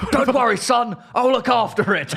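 high, kindly mock older lady; helpful lady voice. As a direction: play the reassuring hospital lady. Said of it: "And she goes".

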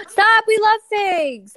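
high, loud and drawn out; thrilled gasp into it; excited squeal. Real, not acted. To cohost about the sponsor, excited.

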